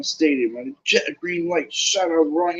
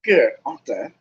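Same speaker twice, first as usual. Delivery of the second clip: smooth; 4 dB louder than usual. Acted. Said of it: "said Malfoy smoothly".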